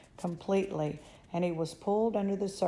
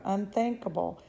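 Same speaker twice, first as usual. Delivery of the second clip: emphatic dismissal; 3 semitones higher than usual. Acted. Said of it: "cried Mister Wonka".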